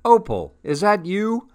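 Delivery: recognizing a friend, pitch jumping up; mildly surprised call to a friend. A narrator's reading. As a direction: soften the grouch into a question. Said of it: "now sounding much less grouchy".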